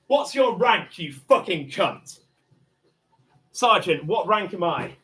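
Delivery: loud, raging, spitting the insults; furious yelling. Real, not acted. Man demanding the officer's rank, loud furious yell. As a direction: tear into the officer.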